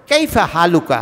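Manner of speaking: কাইফা হালুকা said in full, careful classical Arabic; pure Arabic. Shown as a demonstration. Imam showing the congregation pure Arabic greeting, careful pronunciation. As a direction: pronounce কাইফা হালুকা as clean, complete formal Arabic. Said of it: "বিশুদ্ধ ভাষা".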